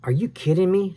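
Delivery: high, sharp disbelieving yell; Sam yelled. A narrator's reading. Sam yells at Al in panic: high disbelieving yell. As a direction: yell at your friend in panic. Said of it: "Sam yelled".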